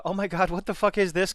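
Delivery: high, loud, exasperated disbelief; excited outburst. Shown as a demonstration. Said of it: "as compared to".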